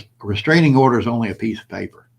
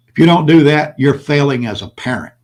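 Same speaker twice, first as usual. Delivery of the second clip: real anger, loud and high at the start, then easing; pissed off; 3 semitones higher, 6 dB louder than usual. Real, not acted. Dad lecturing men on failing as parents, pissed off. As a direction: come down hard on them, worked up. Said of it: "I got pissed off there".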